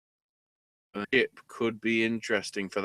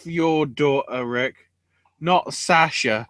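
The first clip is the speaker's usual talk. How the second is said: louder, higher, slow hammed-up scold of a father; mock angry quote; 5 semitones higher, 8 dB louder, slower than usual. Retelling the daughter berating her father, a hammed-up angry rant. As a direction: act out the daughter's furious speech. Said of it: "And then goes".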